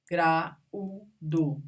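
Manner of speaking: "Graúdo" as gra-ú-do; syllable by syllable. Shown as a demonstration. Teacher showing vowels that separate, syllable by syllable. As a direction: pause between each syllable of "Graúdo". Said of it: "Se separam".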